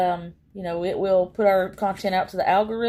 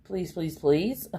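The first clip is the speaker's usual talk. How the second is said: pleading; 4 semitones lower than usual. Retold or imitated. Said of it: "it's just like".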